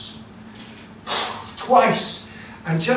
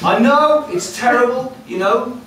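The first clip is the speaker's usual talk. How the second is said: loud, high, giggling through the words; laughing witch; 6 semitones higher, 7 dB louder than usual. Acted. The witch laughs as she tells the farmer to move. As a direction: tell him to move while laughing.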